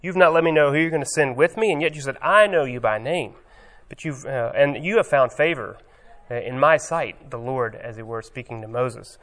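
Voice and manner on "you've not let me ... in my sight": louder, higher, bold and pushy; impious tone. Retold or imitated. Moses boldly tells God what to do, impious tone. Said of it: "this kind of, um, impious tone".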